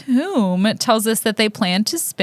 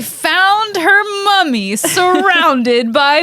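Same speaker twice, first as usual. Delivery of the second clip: laughter rising through a slow, higher correction; drawn-out, high, breaking into giggles; laughing; 6 semitones higher, slower than usual. Real, not acted. Podcaster topping her co-host's bee joke, laughing.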